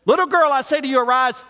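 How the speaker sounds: high shouted call; preacher shouting Jesus' words to the girl; loud command. Acted. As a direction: command her to rise, full voice. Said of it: "Watch this".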